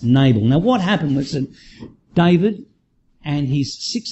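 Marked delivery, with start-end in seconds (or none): 0.0-0.5 "Nabal" with stressed "nay" and a weak "bul"; NAY-bul pronunciation. Shown as a demonstration. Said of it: "I will pronounce his name as".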